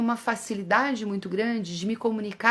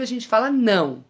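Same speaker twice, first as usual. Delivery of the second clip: louder flat "não", final and clear; firm no to a child; 5 dB louder than usual. Shown as a demonstration. Mother refusing a child who tests limits, firm. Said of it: "várias entonações do não".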